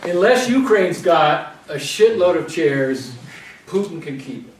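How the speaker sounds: deliberate poetry reading, loud start dropping off; comic poem reading. Acted. Poet reads a short bonus poem to the audience, comic recital. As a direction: read it out slowly as a punchline poem.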